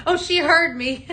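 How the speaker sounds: high, laughing surprise; real laughing. Real, not acted. Host overheard by an off-camera helper, laughing. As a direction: burst out laughing around the words.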